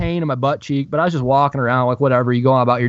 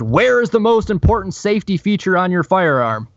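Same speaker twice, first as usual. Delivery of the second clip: higher-pitched, mock-indignant reading; retold scolding question, pitched up; all-caps demand; 5 semitones higher than usual. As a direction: read it out as if in capital letters. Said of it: "in very large capital letters said".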